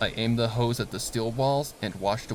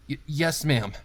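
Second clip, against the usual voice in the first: frightened stammered yes; stammering fear; 5 semitones higher, 4 dB louder than usual. Acted. Worker answering his terrifying boss, stammering scared.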